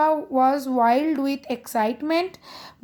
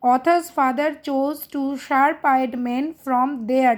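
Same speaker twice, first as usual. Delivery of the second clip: slow dictation; slower than usual. Shown as a demonstration. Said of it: "मैं धीरे-धीरे ही बोलूँगी".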